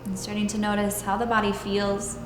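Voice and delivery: calm, even meditation voice with long pauses; guided meditation. Acted. Yoga teacher leading students into stillness and breath, guided meditation. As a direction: guide them unhurriedly, leaving space between phrases.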